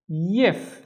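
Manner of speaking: YIF sounded out alone; careful teacher's "yif"; isolated syllable. Shown as a demonstration. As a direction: say "yif" by itself, ending on a clear F. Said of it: "read them one syllable at a time".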